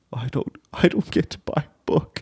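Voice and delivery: hammed-up mopey child, soft and halting. Father mimicking his daughter on the school walk, mopey. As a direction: imitate a sulky, mopey kid. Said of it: "it was just, like, this mopey".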